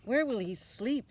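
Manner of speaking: a concerned mother's query; mother asking. Acted. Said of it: "his mother asked".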